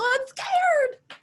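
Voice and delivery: high, small scared voice; imitating a timid woman; mock scared. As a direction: squeak it out like a nervous student. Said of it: "some women go".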